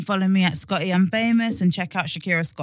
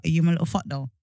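dirty talk demo; 6 semitones lower, 7 dB quieter, faster than usual. Shown as a demonstration. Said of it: "Just like".

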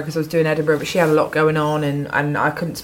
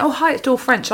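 higher, lightly acted phone greeting; Dawn French; 7 semitones higher than usual. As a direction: lift the pitch for a retold caller's hello. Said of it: "And she went".

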